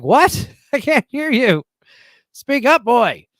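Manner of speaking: high, loud retold shout; calling out. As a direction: call over the noise to someone inaudible. Retold calling over loud music.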